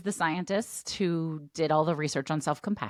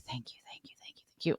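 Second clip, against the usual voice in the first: hushed whisper so the partner sleeps; whispered thanks; 6 semitones lower, 11 dB quieter than usual. Real, not acted. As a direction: whisper the thanks under your breath. Whispering gratitude in bed.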